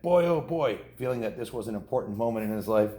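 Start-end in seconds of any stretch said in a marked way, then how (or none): 0.0-0.8 higher, louder thrilled murmur; excited. A narrator's reading. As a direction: savor the moment, thrilled. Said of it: "his whiskers quivering with excitement".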